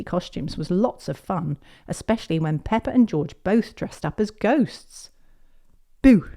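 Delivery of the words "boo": sudden play-scare "boo"; shouted boo. A narrator's reading. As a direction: jump out with a boo. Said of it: "shouted Peppa".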